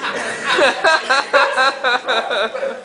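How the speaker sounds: high, loud howl of laughter; helpless shrieking laughter. Real, not acted. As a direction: let the laugh burst out high. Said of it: "lost his chicken".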